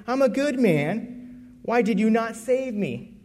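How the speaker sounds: drawn-out desperate plea; mild desperate confusion; slow, pleading. Acted. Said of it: "in desperation and confusion".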